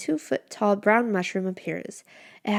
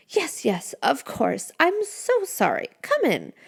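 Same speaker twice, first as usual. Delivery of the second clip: high, flustered little mushroom; flustered creature; 7 semitones higher than usual. A narrator's reading. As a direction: hurry the apology out.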